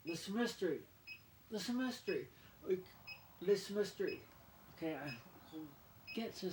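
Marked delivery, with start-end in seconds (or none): 0.1-2.3 Le Semestre with a higher pitch; French Le Semestre. Shown as a demonstration. Showing viewers the French word, says it higher. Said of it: "I'll show you guys". 3.4-4.2 Le Semestre said louder and higher. Shown as a demonstration. Showing viewers the French word, says it louder. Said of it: "I'll show you guys".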